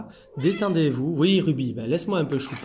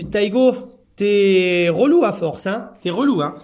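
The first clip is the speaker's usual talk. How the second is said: mild scolding; 4 semitones higher, 7 dB louder, slower than usual. Real, not acted. Scolding a clingy cat.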